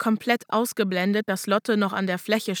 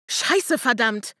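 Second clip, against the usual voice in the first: mild frustrated curse, pitched up; cursing aloud; slower than usual. Acted. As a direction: swear out in frustration. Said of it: "fluchte ich laut".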